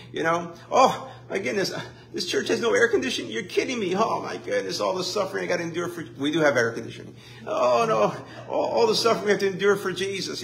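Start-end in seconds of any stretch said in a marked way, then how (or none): 0.7-6.1 mock whiny churchgoer. Mocking complaining churchgoer. 7.5-10.4 mock whiny churchgoer. Mocking complaining churchgoer.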